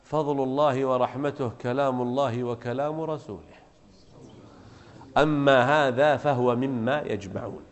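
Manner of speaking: soft, measured acted reply; calm explanation. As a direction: explain quietly, leaving room between the phrases. Caliph calmly explains the verse.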